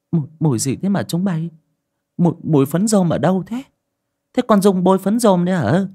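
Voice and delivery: put-on suspicious old mother. A narrator's reading. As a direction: sniff the air and probe the family. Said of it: "khịt khịt mũi, khẽ đảo mắt".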